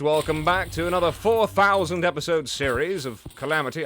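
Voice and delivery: YouTuber impression. Mocking how another YouTuber might open his video, in a bad accent. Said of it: "I don't know why I decided that he sounded like that".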